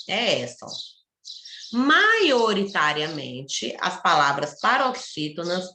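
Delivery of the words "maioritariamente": "Maioritariamente" said slowly, syllable by syllable; "Maioritariamente" dito bem devagar; slow spelled-out word. Shown as a demonstration. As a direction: read "Maioritariamente" out slowly for dictation. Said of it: "Maioritariamente, quer dizer que".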